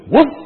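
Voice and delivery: a single playful woof; dog bark. Acted. Dog answering the butcher with a bark. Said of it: "barked the dog".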